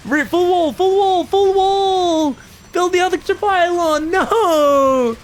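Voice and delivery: high, pleading shouts of full wall; urgent high calls. Real, not acted. Caster urging the player to wall off, high pleading calls. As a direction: beg the player through the screen, rising high.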